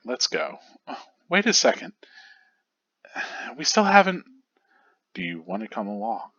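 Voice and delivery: lightly acted dialogue, each character a little distinct; understated anime dub reading; voicing manga characters. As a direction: read the panels as a small radio drama. Reads manga chapter voicing characters.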